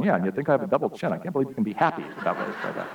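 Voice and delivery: fast, muttered sulky complaint; sulky grumble. Retold or imitated. Husband sulking at his wife in the car, fast mock grumble. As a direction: grumble it under your breath, hurt.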